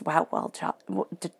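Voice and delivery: words tumble out jumbled; tongue-tied flub. Real, not acted. Reader praising herself, tripping over words in excitement. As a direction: trip over the phrase in excitement. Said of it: "I'm getting so excited, tongue-tied".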